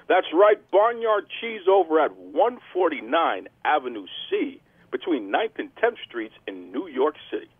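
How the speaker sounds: punchy radio-host promo; show plug read. Acted. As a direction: sell it to listeners, hitting the names. Show plugs and sponsor read.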